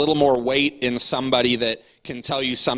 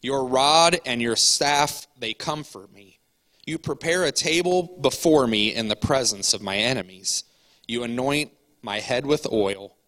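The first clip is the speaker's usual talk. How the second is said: scripture reading; 2 semitones lower than usual. Acted. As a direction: read it like a psalm from the pulpit. Reads Psalm 23 aloud.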